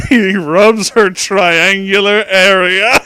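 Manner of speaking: slow, loud, breaking into laughter; laughing while reading. Real, not acted. Reading cringe fanfic aloud, laughing through it. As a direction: barely get the words out through laughs.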